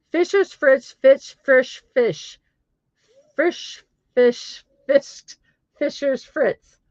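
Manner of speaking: high, deliberate word-by-word attempt; careful tongue twister. Shown as a demonstration. Streamer trying a German tongue twister, careful and high.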